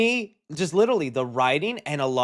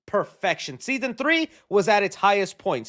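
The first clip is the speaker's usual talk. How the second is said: ordinary talk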